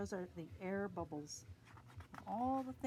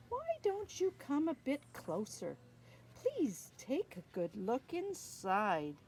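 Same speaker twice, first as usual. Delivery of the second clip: menacing shark. Acted.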